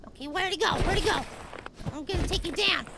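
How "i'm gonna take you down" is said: soft, low threat to the opponent. Real, not acted. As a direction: threaten under your breath.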